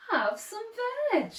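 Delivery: swooping, lightly hooted offer; friendly hoot. A narrator's reading. Duckbills welcome Drip to eat, gentle hooting. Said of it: "and they hooted".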